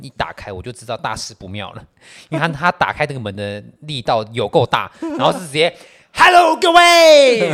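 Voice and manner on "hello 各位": put-on loud, drawn-out drunk greeting; 醉醺醺大喊招呼. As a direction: burst in hollering like a drunk. 醉汉推门大声打招呼. (醉汉拖长音大喊)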